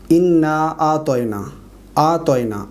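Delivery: اعطینا said atoina, ain softened; wrong pronunciation. Shown as a demonstration. Teacher imitates the misreading of انا اعطینا. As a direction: say اعطینا without the throaty ain. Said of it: "اس طرح پڑھتے ہیں".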